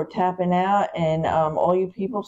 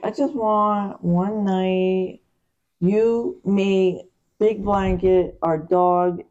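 dreamy wish; 2 semitones higher, much slower than usual. Retold or imitated.

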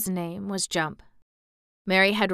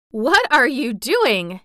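put-on boy taken aback, slow and higher; puzzled delight at the odd talk; surprised boy; 5 semitones higher, 8 dB louder, slower than usual. A narrator's reading. Colin hearing Mary's Yorkshire, surprised.

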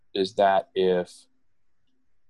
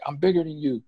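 high cheeky; 8 semitones higher than usual. Retold or imitated. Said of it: "And I'm like".

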